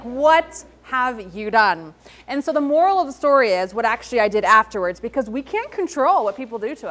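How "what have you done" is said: horrified demand. Retold or imitated. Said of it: "And I was like".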